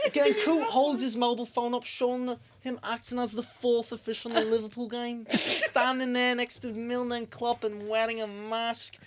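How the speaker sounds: put-on a Scouse accent that keeps sliding Irish; Scouse accent, lightly held; slipping Scouse accent. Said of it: "I just sound Irish at this point".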